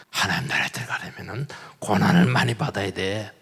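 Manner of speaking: a hushed apostle's earnest line; quoted Paul preaching. Retold or imitated. Paul, bandaged and bleeding, preaching to the city in a quiet, earnest voice.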